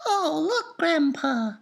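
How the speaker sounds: put-on high, eager boy's voice; a boy tugging at his grandpa, excited and high; excited cry. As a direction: call out to Grandpa in delight. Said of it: "cried Charlie".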